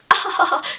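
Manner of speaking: put-on giggle, imitating a chummy hostess; mock social laugh. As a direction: fake polite laugh, high. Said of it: "she starts joking with them".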